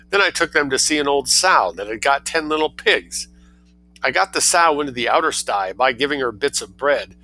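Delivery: a pleased little schemer reporting his prank; cheeky boy. Acted. Boy Hyacinth on telephone.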